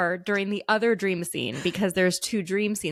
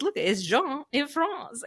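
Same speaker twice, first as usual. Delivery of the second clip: higher, slow, fond mock mom voice; imitating mom; 7 semitones higher, slower than usual. Mom showing off the French boy shirt, higher and slow. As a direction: point at the shirt like a delighted mom, slowly. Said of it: "And she goes".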